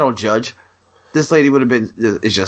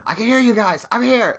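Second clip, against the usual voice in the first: pleading shout; 12 semitones higher than usual. Retold or imitated. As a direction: call out high so they hear you. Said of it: "It didn't record me going".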